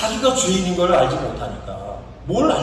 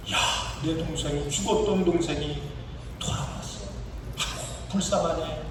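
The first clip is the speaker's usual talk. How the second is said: softly sighed sympathy for a brother; hushed pity; 6 dB quieter than usual. Acted. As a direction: voice drops to a soft, pitying murmur. Acting brother pitying returned sibling.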